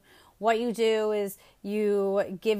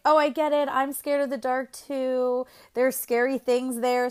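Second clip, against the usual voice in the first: overdone sympathy; 3 semitones higher than usual. Acted. Parent agreeing with a scared kid, lightly overdone sympathy. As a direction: imitate a parent feeding the fear.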